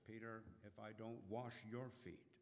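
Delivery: soft and gentle reply; Jesus answering Peter quietly. A narrator's reading. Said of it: "And Jesus quietly says".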